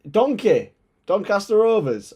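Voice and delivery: calls the team name out high and loud; excited call-out. Real, not acted. Calling out a fan's team.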